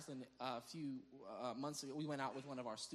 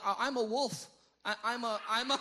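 higher, louder mock declaration; TikTok wolf person; 6 semitones higher, 10 dB louder than usual. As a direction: imitate someone earnestly claiming to be a wolf, half-laughing. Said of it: "people are, like, talking to wolves".

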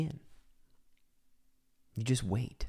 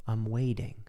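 calm and soft, a bit lower; 3 semitones lower, 4 dB quieter than usual. Shown as a demonstration. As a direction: say it as if fully at peace. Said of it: "when I say with this voice".

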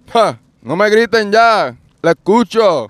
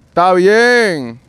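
ordinary delivery

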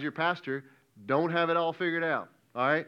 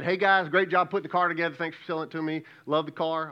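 cheerful customer; 2 semitones higher, 5 dB louder than usual. Acted. Car buyer thanking the makers, mildly hammed-up cheer. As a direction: lightly play an upbeat car buyer. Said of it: "And I said".

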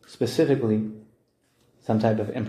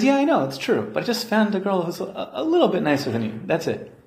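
casual husband; 7 semitones higher than usual. Retold or imitated. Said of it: "He says".

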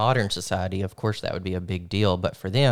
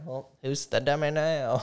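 self-mocking; 6 semitones higher than usual. Real, not acted. Self-mocking after word mistake.

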